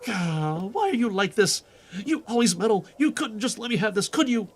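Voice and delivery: heated accusation. Acted. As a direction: call out the impostor. Villain unmasked, heated exchange.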